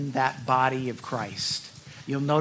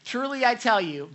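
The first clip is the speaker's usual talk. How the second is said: higher and louder declaration; emphatic Jesus; 10 semitones higher, 4 dB louder than usual. A narrator's reading. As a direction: proclaim it with weight. Jesus voiced solemnly.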